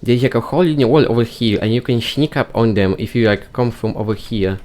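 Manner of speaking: excited nerdy rambling voice; nerd voice. Pretend. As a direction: rattle it off like an eager nerd. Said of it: "speak using that silly nerd voice".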